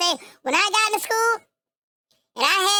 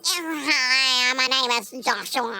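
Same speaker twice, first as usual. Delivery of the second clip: mocking a thin nasal white voice, lower; nasal white guy; 7 semitones lower, slower than usual. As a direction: do a weak nasal introduction, mocking. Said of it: "that little bit nose".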